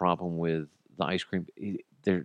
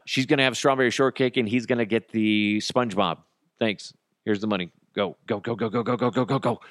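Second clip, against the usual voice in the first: panicked; 3 semitones higher than usual. Retold or imitated. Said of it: "panic shot through my entire body".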